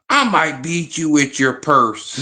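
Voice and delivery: a touch of a sassy matriarch; Madea threat. Retold or imitated. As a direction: threaten playfully like a sassy old lady. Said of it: "I might sound like Madea".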